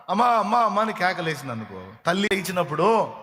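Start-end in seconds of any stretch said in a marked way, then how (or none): 0.1-0.8 put-on frightened girl's call. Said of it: "కేకలేస్తుందమ్మా".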